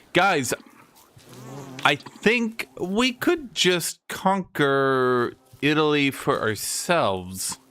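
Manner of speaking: slow, sly, musing plan; a lightly voiced scheming mercenary; scheming idea. Normans scheme to conquer Italy.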